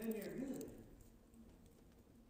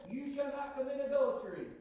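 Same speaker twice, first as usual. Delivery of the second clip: loud proclaiming; 4 semitones higher, 8 dB louder than usual. Acted. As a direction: boom out the commandment. Preacher quoting the commandment.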